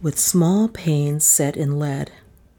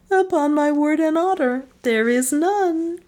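wife swearing; 11 semitones higher than usual. A narrator's reading. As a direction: swear it sweetly.

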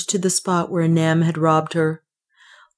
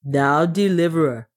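a hint of accented dwarf; lightly voiced dwarf servant. The dwarf turns to the deliverer, lightly accented voice. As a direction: lightly play the dwarf addressing his master. Dwarf addresses his master.

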